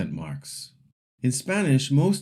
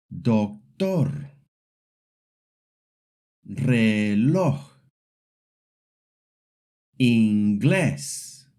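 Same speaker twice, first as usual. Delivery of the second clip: docTOR, reLOJ, inGLÉS, last syllable strong; doctor, reloj, inglés modelled for repeating, weight at the end; practice final stress; 2 semitones lower, much slower than usual. Shown as a demonstration. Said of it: "Repeat after me".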